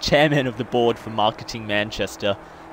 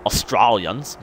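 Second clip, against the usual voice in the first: AUSTRALIANS in a hammed-up Australian accent, first syllable "os"; broad Australian accent; 3 dB louder, slower than usual. Shown as a demonstration. Vlogger overdoing own origins, mock broad Australian accent on "Australians". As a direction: put on a botched broad Aussie "Australians". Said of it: "buffen up my Australian accent".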